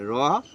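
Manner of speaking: র said as a rounded, full-mouthed "rɔ"; emphatic heavy "rɔ" for র, loud and drawn up. Shown as a demonstration. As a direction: give র a full rounded sound, never "raa". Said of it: "পুর হবে".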